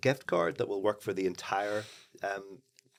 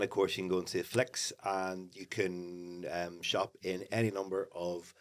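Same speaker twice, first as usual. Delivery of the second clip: flat, trailing-off sales pitch; half-hearted; 2 semitones lower, 5 dB quieter, slower than usual. Real, not acted. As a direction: list the shops with no enthusiasm. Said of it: "it feels really half-hearted".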